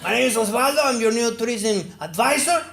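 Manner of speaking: a touch of salesman-like announcing; Mexican tourism advisor. Acted. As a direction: pitch it up as a self-appointed advisor introducing himself. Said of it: "Imagine a Mexican helping Australians".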